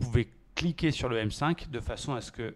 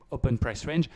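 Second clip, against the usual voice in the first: English accent; 4 dB louder than usual. Real, not acted. Trader repeating the indicator name for viewers in accented English. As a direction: open price range said in English with a French accent. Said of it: "désolé pour mon accent anglais".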